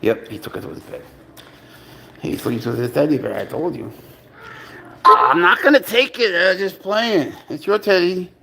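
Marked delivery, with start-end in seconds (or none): 5.1-8.3 high-pitched cooing to a pet; pet talk. Real, not acted. Owner soothing cat over its teddy, high pet talk. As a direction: reassure the cat in a raised, lively voice.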